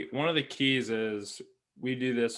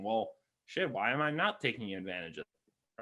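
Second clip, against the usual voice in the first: inner thought; 3 semitones lower, 7 dB quieter than usual. Retold or imitated. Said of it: "getting his mind thinking".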